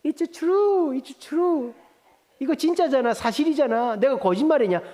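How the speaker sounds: high, loud, insistent mother's retort; blunt mother. Retold or imitated. Mother-in-law insisting to her son, high and loud. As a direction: fire it back, refusing to back down. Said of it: "그 엄마가 뭐라는지 알아요?".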